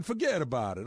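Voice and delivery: mock New York accent. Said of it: "the New York one".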